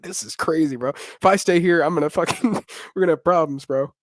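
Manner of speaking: half-laughing, worked up; laughing worked-up retold thought; giddy disbelief. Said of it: "I was like".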